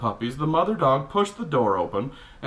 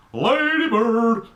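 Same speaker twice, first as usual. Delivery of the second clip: high, slow, drawn-out cry of the dog's name; excited shout; 8 semitones higher, 4 dB louder, slower than usual. Real, not acted. Reader interrupting the story to cheer their own dog, drawn-out happy call. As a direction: call out Ladybird with delight.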